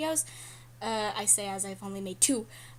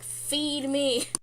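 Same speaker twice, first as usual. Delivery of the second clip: whiny feed me; 3 semitones higher than usual. Retold or imitated. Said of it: "you're just gonna be like".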